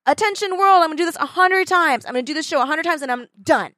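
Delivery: hammed-up magician's proclamation; grand showman announcement. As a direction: announce it to the world like a stage magician. Hugh Jackman's grand announcement.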